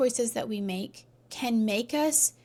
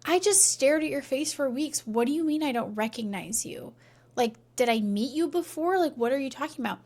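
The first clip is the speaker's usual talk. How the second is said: puzzled; 3 semitones higher, faster than usual. Retold or imitated. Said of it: "scratching his head".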